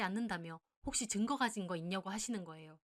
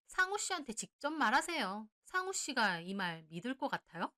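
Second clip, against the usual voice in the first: defiant retort; 2 semitones higher than usual. Acted. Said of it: "고개 빳빳이 들고는".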